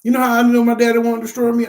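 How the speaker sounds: heated, rushing the question out; fired-up preacher burst; worked up. Real, not acted. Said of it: "I don't know why I'm talking like this".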